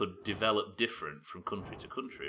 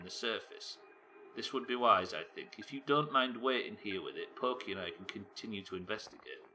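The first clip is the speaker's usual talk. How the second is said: measured, formal reading aloud; game dialogue narration; 2 semitones higher than usual. Acted. Explorers debating a freezing shuttle on the comet, measured read. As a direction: read out the explorers' careful deliberation.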